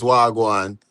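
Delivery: Wagwan said clearly as "wah-gwahn"; Patois pronunciation. Shown as a demonstration. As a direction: teach Wagwan with open "ah" vowels and a final N. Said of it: "so in Patois".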